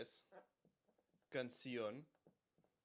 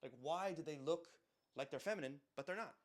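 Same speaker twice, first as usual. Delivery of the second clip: mock confused student; 3 semitones higher than usual. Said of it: "if you're like".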